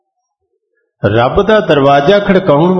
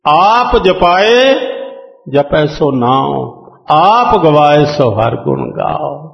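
slow, drawn-out recitation of scripture; gurbani recitation; slower than usual. Acted. Preacher reciting gurbani to the congregation, slow and devout. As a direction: intone each phrase slowly and devoutly.

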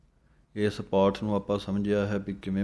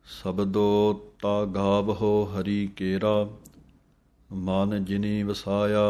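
gurbani recitation; slower than usual. Acted. Recites the verse.

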